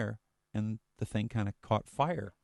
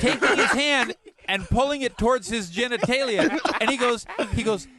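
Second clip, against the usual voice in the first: laughing; 11 semitones higher, 8 dB louder than usual. Real, not acted. Laughing through chimp punchline.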